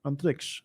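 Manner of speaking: Antariksh said softly, k before sh; name ending in -ksh. Real, not acted. Host retrying a winner's name softly, ending it -ksh. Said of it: "I'm pronouncing it wrong".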